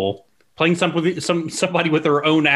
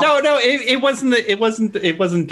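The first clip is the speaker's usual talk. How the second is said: high indignant protest; 10 semitones higher than usual. Real, not acted. Defending his joke to his brother and co-host, high-pitched indignant denial. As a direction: squeal it out, pitch way up, then come back down.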